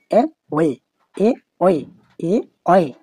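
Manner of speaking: এ split off, pressure on অয়ে; unstressed এ, pause, then push অয়ে; stress on second syllable. Shown as a demonstration. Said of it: "গলার মধ্যে একটা pressure create হচ্ছে".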